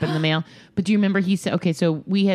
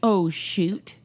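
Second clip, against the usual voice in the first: breathy retold whisper of alarm; whispered dismay. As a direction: whisper it like a secret panic. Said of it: "I was like".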